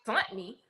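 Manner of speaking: puzzled echo of "sent" as "sunt"; imitating mispronunciation. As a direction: say "sent" with an uh vowel. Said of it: "I realized she meant sent".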